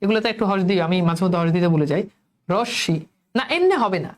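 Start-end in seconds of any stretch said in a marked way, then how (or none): 2.5-3.0 রশ্মি said "rosh", then "shi"; split syllables. Shown as a demonstration. Teacher showing what students will write, রশ্মি as "rosh-shi". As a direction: break রশ্মি on the double sh. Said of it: "এখন রশ্মির উচ্চারণ খেয়াল করো".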